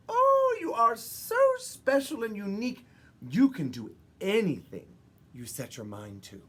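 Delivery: high, loud gushing praise; doting mothers. Acted. Mothers praising Maggie to admiring fish, high and gushing. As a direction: gush over her like proud mothers. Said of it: "her mothers would always say".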